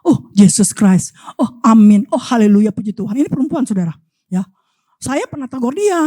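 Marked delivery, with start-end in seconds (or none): 0.0-3.2 pious gushing quote. Retold or imitated. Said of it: "dia ngomong gini".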